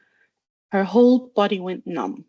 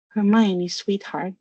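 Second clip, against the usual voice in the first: soothing; slower than usual. Acted. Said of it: "in a soothing voice as he could muster".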